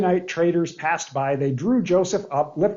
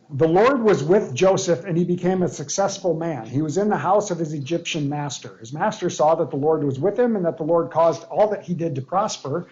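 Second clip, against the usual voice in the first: scripture reading. Acted. Reads scripture aloud.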